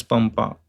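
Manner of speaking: Pampa with m before pa; Pampa, lips closed for the nasal; labial anuswara. Shown as a demonstration. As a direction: say Pampa with a clear m. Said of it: "pronounced as".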